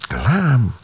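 hushed whispered thought while licking fingers; thinking aloud, whispered. Acted. Tánya tastes the secret chocolate, whispering her thoughts. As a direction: whisper it to yourself, guilty and pleased. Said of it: "így gondolkodott".

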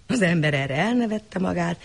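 ordinary delivery

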